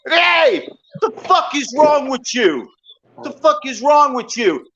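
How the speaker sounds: angry yell at a dog-beater; retold angry shout. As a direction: shout it down from the roof, outraged. Yelling at woman hitting dog.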